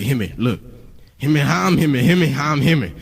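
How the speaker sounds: imitated babble of repeated slurred catchphrases; a rapper's lingo. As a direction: mimic his baffling lingo as if it were sage advice. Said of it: "his lingo at first".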